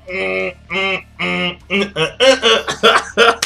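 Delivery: Zoro grunting. Retold or imitated. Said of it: "he's, like, kinda like".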